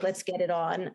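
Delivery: lightly put-on Jersey accent; a quick, jokey Jersey accent. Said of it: "it's a bad Jersey accent".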